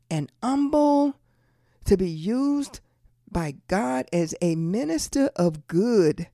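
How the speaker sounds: slow, deliberate repeat with long pauses between phrases; real slow. Shown as a demonstration. Preacher repeating it for those way in the back, real slow. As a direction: spell it out phrase by phrase. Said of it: "I'm gonna say it real slow".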